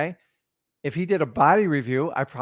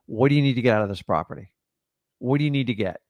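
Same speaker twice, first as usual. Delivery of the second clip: suggested phrasing; 3 semitones lower, faster than usual. Shown as a demonstration. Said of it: "Simply just replace with this".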